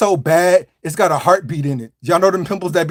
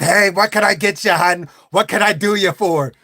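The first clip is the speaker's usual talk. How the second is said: flirty diner waitress. Retold or imitated. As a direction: greet the customer like a waitress.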